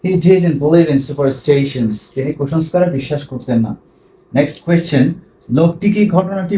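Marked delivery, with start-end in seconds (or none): 0.0-1.9 slow, steady, each word separate; slow teacher demo; slow model sentence. Shown as a demonstration. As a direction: dictate it slowly to the class. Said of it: "teacher models sentence slowly".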